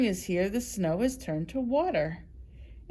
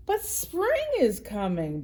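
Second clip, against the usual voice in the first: chirpy bird; 4 semitones higher than usual. Acted. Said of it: "Bird chirped".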